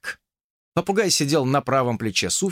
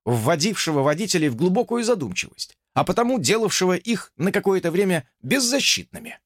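officer snapping to attention, higher; dutiful officer report; 6 semitones higher than usual. Acted. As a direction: report crisply to a superior. Officer's long formal report.

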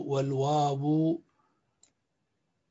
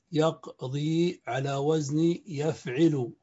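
slow, deliberate pattern; much slower than usual. Shown as a demonstration. Teacher spelling out a verb pattern.

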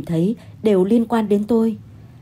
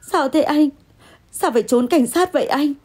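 higher-pitched, puzzled tone; bewildered questioning; 6 semitones higher than usual. Acted. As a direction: ask in confused surprise. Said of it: "Tôi ngơ ngác hỏi".

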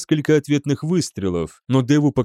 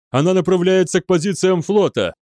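higher, urgent officer's report; alarmed gabbling; 6 semitones higher, 3 dB louder than usual. A narrator's reading. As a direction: blurt out the warning. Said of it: "затараторил офицер связи". (встревоженный торопливый доклад)

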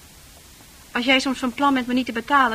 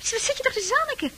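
laughing scorn; 12 semitones higher, 4 dB quieter, faster than usual. Acted. Laughing scorn at his naivety.

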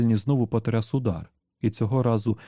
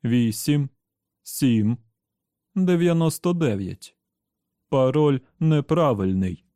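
triumphant; 3 semitones higher, 3 dB louder, slower than usual. Acted. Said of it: "Тепер Едді розчув тріумф".

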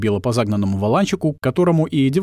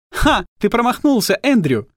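high, louder triumphant cry; gleeful shout; 11 semitones higher, 3 dB louder than usual. Acted. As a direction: crow over the miss, arms up. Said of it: "закричала она".

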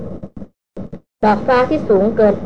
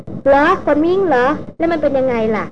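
calm heroine voice; 6 semitones higher than usual. A narrator's reading. Young noblewoman to hunter, coolly even. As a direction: ask it evenly in her higher voice. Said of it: "ดารินถามเรียบๆ".

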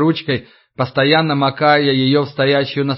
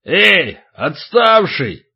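calling out; 3 semitones higher, much slower than usual. Acted. Big guy calls out to Vova.

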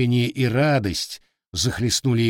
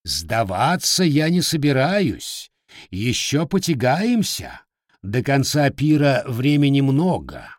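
booming voice; 3 semitones higher, 4 dB louder than usual. Acted. Sea king addresses the feast.

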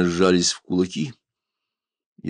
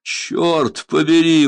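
laughing exclamation; 8 semitones higher, 5 dB louder, much slower than usual. A narrator's reading. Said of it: "воскликнул Янос, смеясь".

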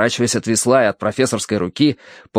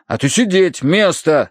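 raised, firm dog command; 6 semitones higher than usual. A narrator's reading. Narrator orders the dog to sit, commanding. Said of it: "скомандовал я Сирилу".

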